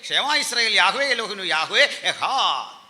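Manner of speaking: chant-like run ending on a long final word; musical recitation. Shown as a demonstration. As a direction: proclaim the Hebrew creed in one sweep. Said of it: "ഇത് മ്യൂസിക്കലാണ്".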